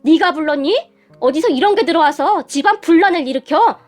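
sharp accusing questions; angry scolding. Acted. Mother-in-law berates daughter-in-law. (언성을 약간 높여 꾸짖듯)

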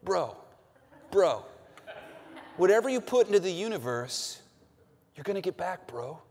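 lightly voiced laid-back bro, a laugh slipping in; a hint of a chill dude calling everyone bro. Pastor mimicking what society says, mild bro voice. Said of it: "you might hear them say something like".

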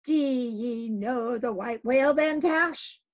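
high, loud urgent question; eager captain. Acted. Captain presses Tashtego, high and loud. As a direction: press him for an answer.

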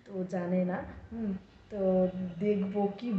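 hushed so husband won't hear; speaking softly. Real, not acted. Hiding the biryani surprise from her husband, hushed. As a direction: keep it low, a secret from the next room. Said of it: "আমি আস্তে আস্তে বলছি".

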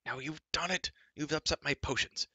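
high, despairing giant's wail; a giant's high, petulant despair. Acted. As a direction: wail over the spilled potions. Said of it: "Glue wailed in resounding despair".

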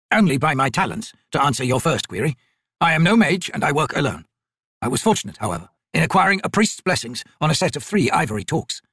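lightly voiced, formal old merchant; humble old trader. Old trader explains himself to soldiers, mildly anxious and formal. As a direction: plead poverty with careful courtesy.

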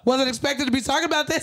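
high-pitched, laughing while choked up; real emotional laughter. Real, not acted. Guest caught off guard by the topic, emotional laugh. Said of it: "Oh, no, I'm just emotional".

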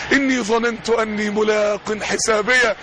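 slow, measured Quranic chant; slow recited verse; Quran recitation. Acted. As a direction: recite it slowly, drawing out the words.

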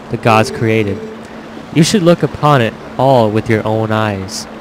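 low, measured storyteller reading; lightly voiced wise villager, unhurried and solemn; a touch of solemn, low-pitched narration; lightly voiced village elder. Reads game dialogue as elder villager.

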